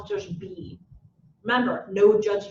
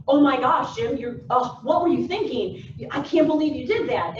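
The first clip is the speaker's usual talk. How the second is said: mock self-scolding, a touch louder; screaming at yourself; 4 dB louder than usual. Jim scolding himself over a mistake, mock yelling. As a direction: berate yourself in half-hearted exasperation. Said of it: "scream at yourself and say".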